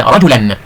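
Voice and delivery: "رجلا" ending in a clear "-an"; fathatan ending. Shown as a demonstration. Teacher showing pupils tanween, "رجلا" said slowly with -an. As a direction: sound the final n in "رجلا", rajulan. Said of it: "تنوين بالفتح مثل".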